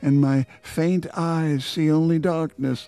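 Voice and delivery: slow, solemn poem recital; poetry reading. Acted. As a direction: read it like a grave sonnet. Reads a poem aloud.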